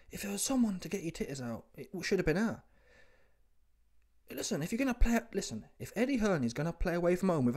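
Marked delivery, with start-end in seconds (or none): 0.1-2.0 hushed aside under the breath; whispering. Real, not acted. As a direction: drop into a whisper. Aside about the woman.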